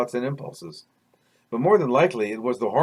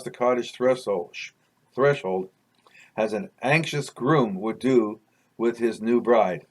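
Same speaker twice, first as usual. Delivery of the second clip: measured, deliberate read-aloud storytelling; story narration. A narrator's reading. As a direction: read it like a memoir chapter. Reads own story aloud.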